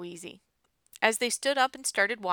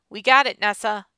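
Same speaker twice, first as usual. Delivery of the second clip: excited shout; 2 semitones higher, 10 dB louder than usual. A narrator's reading. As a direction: call it out, thrilled at success. Character exclaims over first smoke.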